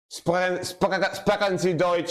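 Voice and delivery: mock German gibberish, played for laughs; playfully evil fake German accent; mock evil German yap. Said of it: "Evil German yap sounds".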